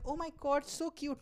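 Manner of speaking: high-pitched mock gushing; imitating an adoring pet owner; gushing cat lover. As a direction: coo it high like a smitten cat fan.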